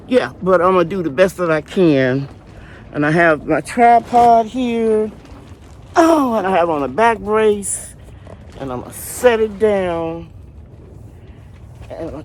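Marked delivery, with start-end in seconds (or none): 0.1-10.3 wind in the face. Real, not acted. Speaking over strong wind outdoors.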